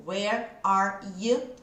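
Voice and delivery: "Where are you?" stretched out slowly, word by word; slow demo. Shown as a demonstration. Teacher slowing down so students can repeat. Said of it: "A hora que eu junto tudo".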